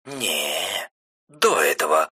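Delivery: требовательно. A narrator's reading. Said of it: "требовательно заявила она".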